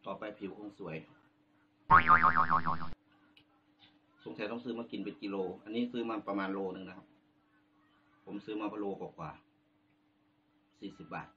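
talking with food in mouth; eating while speaking; chewing tomato. Real, not acted. Seen 3: Holds bitten tomato, bites at 8.2 s, jaw chewing between phrases.

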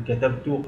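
كتبت ending in -tu; subject ta. Shown as a demonstration. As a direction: say كتبت as katabtu. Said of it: "تاء الفاعل".

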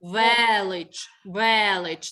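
«Велич» with a loud, clear stressed Е; clear Е sound. Shown as a demonstration. Teacher gives class the check word, clear Е in «Велич». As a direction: punch the Е in «Велич». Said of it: "тут чітко чути звук Е".

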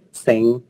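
"sánh" with E in place of A; vần E tiếng Thái. Shown as a demonstration. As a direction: say "sánh" the Thai way, like "seng". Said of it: "là vần E đấy". ("sánh" đọc thành "seng" kiểu tiếng Thái)

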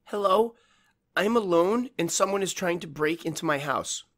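high, slow, fighting panic; trying hard to stay calm; forced calm. A narrator's reading. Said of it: "She spoke slowly as she struggled to keep calm".

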